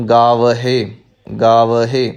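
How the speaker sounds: ਗਾਵਹਿ with its h clearly sounded as "gaav-he"; clear final haha. Shown as a demonstration. Teacher showing new learners the haha, ਗਾਵਹਿ said distinctly as "gaav-he". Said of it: "ਹਾਹੇ ਦਾ ਜੋ ਉਚਾਰਨ ਹੈ ਉਹ ਸ਼ੁੱਧ ਹੋਵੇਗਾ".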